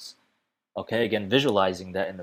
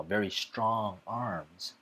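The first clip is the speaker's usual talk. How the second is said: "strong" slowly stretched out for emphasis; stress on strong; 5 dB quieter, much slower than usual. Shown as a demonstration. Teacher showing how speech emphasises a word, slow stress on "strong". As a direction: take your time on "strong". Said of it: "put more emphasis in the strong word".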